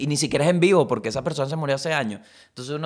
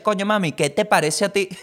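mock flirty tone; 5 semitones higher than usual. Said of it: "por qué estás hablando en ese tono".

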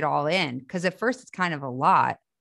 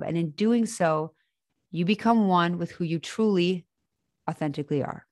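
airy breathy mystical healer; 3 semitones higher than usual. Acted. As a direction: speak as a gentle spiritual guide. Channels an inspirational message.

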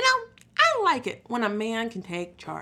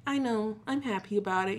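low, soft, understated happiness; chill; 3 semitones lower, 9 dB quieter than usual. Retold or imitated. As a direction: imitate your own mellow happy self. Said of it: "be chill".

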